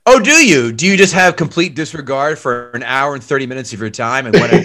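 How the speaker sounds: a teasing, sarcastic roast of the movie; sarcastic rant. Real, not acted. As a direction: scoff at him for loving nostalgia. Mock outrage at skipping the movie.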